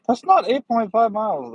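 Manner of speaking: incredulous. Real, not acted. Reacting to route distance.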